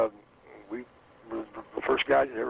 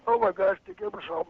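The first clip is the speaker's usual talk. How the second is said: amazed gasp. Retold or imitated. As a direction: mimic a star-struck stagehand. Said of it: "He goes".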